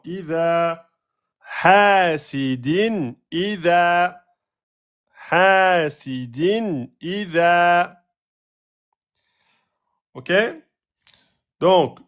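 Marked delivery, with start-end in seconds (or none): 0.0-8.0 slow chanted "hasidin idha" with long vowels; two-beat prolongation. Shown as a demonstration. Teacher modelling the beats, "hasidin" slowly chanted. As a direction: draw out "ha" and the ends of "idha". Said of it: "deux temps".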